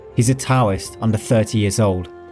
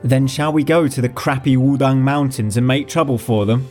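eager; 5 semitones higher, faster than usual. Acted. Xu Fengnian eager to make trouble.

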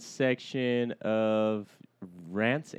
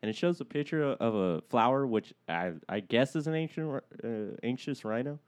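talking through a blocked nose; stuffed-up nasal voice; stuffy nose. Real, not acted. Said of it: "My nose is stuffed up".

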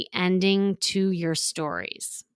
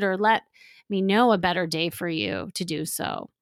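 calm feelings statement. Shown as a demonstration. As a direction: tell him how you feel, gently. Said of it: "a response that incorporates your emotions".

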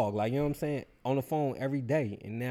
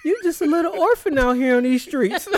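much higher, louder put-on voice, breaking into laughter; imitating the sympathetic dude; 10 dB louder than usual. Mocking the dude calling him an orphan, high and laughing. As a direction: gush it out, laughing through it. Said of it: "He said".

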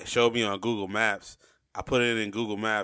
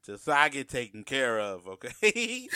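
lightly voiced indignant dad; white dad. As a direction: mimic a dad mildly insisting, rising on "okay". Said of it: "that's white dad energy right there".

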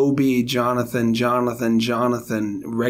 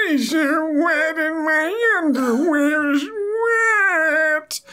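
high, slow, wailing mock sob; over-the-top tearful lament; hammed-up crying; much slower than usual. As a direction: blubber like a melodramatic old man. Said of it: "What was I saying to him".

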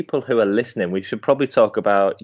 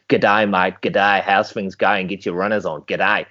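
lower-pitched mock Australian PE teacher; imitated Australian accent; 4 semitones lower, slower than usual. Recalling his PE teacher's greetings, mock Australian accent. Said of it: "I used to have an Australian teacher".

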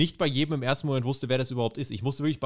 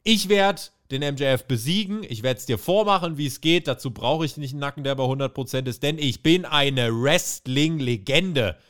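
lightly hammed-up stubborn wrestler; defiant. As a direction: brush him off with pride. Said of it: "Roderick Strong".

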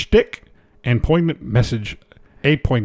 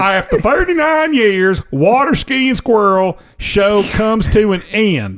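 bad acting; 5 semitones higher, slower than usual. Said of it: "I'll deliver it like you would".

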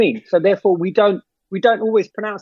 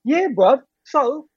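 demonstrating London street slang speech; casual London roadman talk, put on; mock chav London accent; 3 semitones higher than usual. Shown as a demonstration. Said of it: "talk like a chav".

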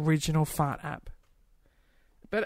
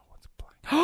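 whisper; 9 semitones higher, 4 dB louder than usual. Real, not acted. Shocked rereading of joke.

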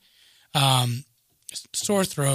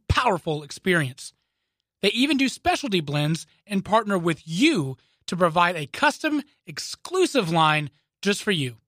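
ad read; 3 semitones higher than usual. Acted. Reads a sponsor ad.

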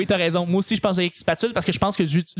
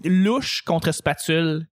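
dramatic announcer; much slower than usual. Acted. Announcing the debate topic.

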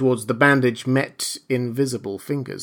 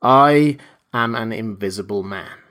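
insist, leaning on the word "I"; firm restatement with a long "I"; emphatic repetition. A narrator's reading. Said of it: "repeated the voice".

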